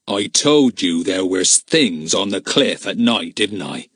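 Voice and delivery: slow, low menacing man; frightening voice. Acted. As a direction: spook the boy slowly. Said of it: "said Joe in a frightening voice".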